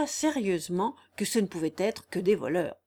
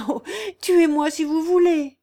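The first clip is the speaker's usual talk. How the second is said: loud and higher, defiant; defiant outcry; 8 semitones higher, 8 dB louder than usual. Acted. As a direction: shout her defiance at him. Jeanne defies gunman.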